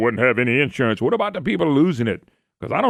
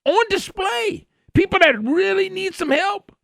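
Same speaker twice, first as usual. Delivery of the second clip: incredulous. Retold or imitated. Voices what viewers should say.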